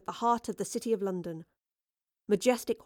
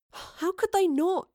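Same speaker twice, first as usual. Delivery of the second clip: sighing; 11 semitones higher, 3 dB louder, slower than usual. Acted. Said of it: "Thomas sighed".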